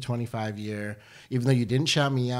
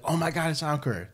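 higher-pitched mock recognition; imitating excited fans; 6 semitones higher than usual. Friends introduced at dinners, imitated in excited recognition. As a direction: play someone spotting a minor celebrity. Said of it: "they'll be like".

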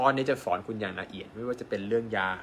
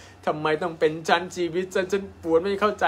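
higher, whiny lament of a patient in pain; mock despairing patient; 8 semitones higher, 4 dB louder than usual. Doctor imitating a patient who asks why me, mock despair. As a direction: act out a hopeless sufferer, lightly. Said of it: "คุณรู้สึกว่า".

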